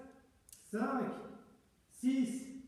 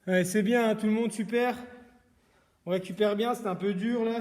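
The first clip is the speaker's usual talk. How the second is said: loud praise; 7 dB louder than usual. Real, not acted. Praising class after set.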